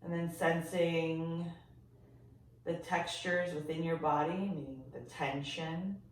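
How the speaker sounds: gentle, softened body-scan voice with long pauses; guided meditation. Real, not acted. Yoga teacher guiding listeners to sense their body, calm meditation voice. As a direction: ease them into noticing, leaving silence between phrases.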